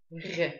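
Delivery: softened, vibrating back-of-mouth Р; смягчённый звук. Shown as a demonstration. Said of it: "мы его смягчаем". (мягкое вибрирующее «р»)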